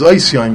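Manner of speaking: Ois Yoim, said like Hebrew with an 'oy' start and an s. Shown as a demonstration. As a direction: common reading "Ois Yoim", no v or t. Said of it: "the way people pronounce it is".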